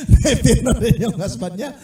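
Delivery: laughing through the punchline. Real, not acted. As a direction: chuckle while telling it. Preacher laughing at own joke.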